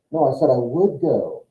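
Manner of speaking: WOULD stressed in an acted denial; mild self-defence; defensive correction. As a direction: lean on "would" to correct them. Acted reply in misunderstanding quarrel.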